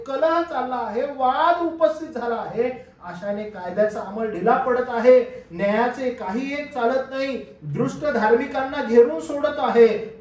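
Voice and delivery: loud, high lament, slow in places; shouted prayer. Acted. Habakkuk shouts his prayer to God, loud lament. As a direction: cry the complaint aloud to God. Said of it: "ओरडून प्रार्थना करत आहे".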